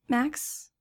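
lightly voiced girl testing the water; tentative young girl. A narrator's reading. Hesitant girl calls the narrator.

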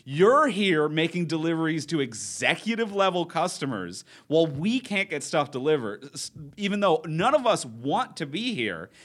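impassioned woman ranting at the delivery guy; righteous fury. Retold or imitated. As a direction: lecture him on society, fired up. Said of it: "she was like".

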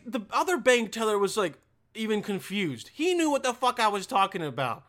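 normal talking voice

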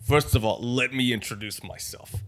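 lightly voiced Italian tough guy introducing himself; a hint of a wiseguy being formal; Robbie the gangster. Gangster Robbie introducing himself in Italian accent.

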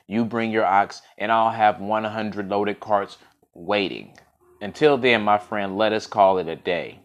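measured folk-tale reading; story narration. A narrator's reading. Storyteller reading of the poor farmer and his ox, story narration. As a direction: read it out as a tale, with weight on key words.

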